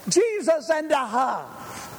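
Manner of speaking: breathless preacher. Retold or imitated. Mimicking out-of-breath preachers, gasping hammed-up "ha". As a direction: ham up a winded preacher's "and a ha". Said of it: "I can practice what they do".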